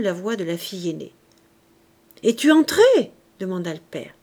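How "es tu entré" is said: loud, raised question; calling out. A narrator's reading. Father questions his daughter from afar, calling out. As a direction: call the question through to another room.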